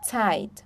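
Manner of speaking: "Zeit" starting with TS. Shown as a demonstration. Teacher giving an example of Z, "Zeit" with TS. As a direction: say "Zeit" as "tsait". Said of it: "som de T S".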